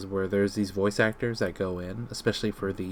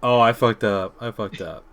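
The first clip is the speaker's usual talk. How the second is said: panicked yell; 8 dB louder than usual. Pretend. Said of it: "And you're like".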